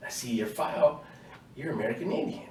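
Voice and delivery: high, sing-song mock sergeant; mock drill sergeant. Drill sergeant taunting recruit in line, high mock friendliness. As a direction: tease him in a high fake-friendly voice. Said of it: "He was like".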